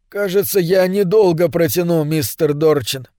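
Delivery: flat, toneless robot speech; expressionless voice. Acted. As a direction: say it with no feeling at all. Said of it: "сказал без всякого выражения". (голос без всякого выражения)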